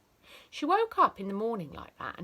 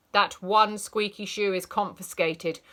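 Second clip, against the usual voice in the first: loud, stern scold; teacher confiscating a shoe; 7 dB louder than usual. Acted. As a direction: snap at the pupil.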